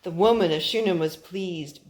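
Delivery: gentle storybook narration for a little one; reading to a child. A narrator's reading. Parent reading a Bible story to her son, storybook voice. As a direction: read it like a bedtime Bible story.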